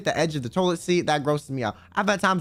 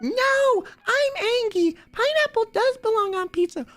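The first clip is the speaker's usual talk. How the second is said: imitating Scarlett. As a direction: parody a friend's indignant squeal about pizza. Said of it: "'Cause she was like".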